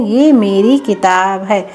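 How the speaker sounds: slow, careful model sentence; slow correct model. Shown as a demonstration. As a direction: say the right form clearly. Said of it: "तो क्या बोलते हैं?".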